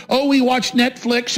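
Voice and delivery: slow mocking imitation; mimicking complacency. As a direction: drag it out like someone oblivious. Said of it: "we have this normalcy bias".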